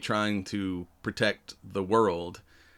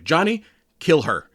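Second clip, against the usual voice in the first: a loud, higher retold shout at Johnny; mock yell; 6 semitones higher, 5 dB louder than usual. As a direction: bark the order like a woman in labor. Sue in labor shouting orders.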